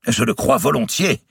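high, loud kingly exclamation; exclaiming. A narrator's reading. King to his astrologer, agreeing eagerly, exclaiming. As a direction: burst out in confident agreement. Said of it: "s'écria le hutin".

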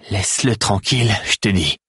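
Théo repeating his demand to the Grax, insistent and firm. A narrator's reading. Insist, leaning on tranquille. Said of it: "La voix de Théo était étrangement ferme".

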